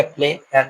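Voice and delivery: "प्लेयर" broken as प्ले, pause, यर; split into syllables. Shown as a demonstration. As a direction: say "प्लेयर" in two separate beats, प्ले... यर. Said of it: "दो भागों में तोड़ता है". ("प्लेयर" को प्ले और यर में तोड़कर)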